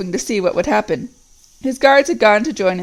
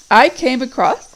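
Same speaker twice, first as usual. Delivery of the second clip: evil voice; 4 semitones higher, 4 dB louder than usual. Acted. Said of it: "said the evil voice".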